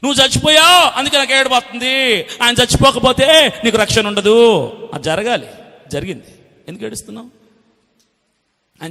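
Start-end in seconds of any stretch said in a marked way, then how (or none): 0.1-4.7 indignant rebuke. Acted. Preacher loudly challenges the weepers' reason.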